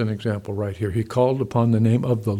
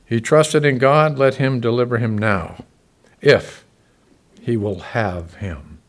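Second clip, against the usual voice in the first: mocking taunt; 6 dB louder than usual.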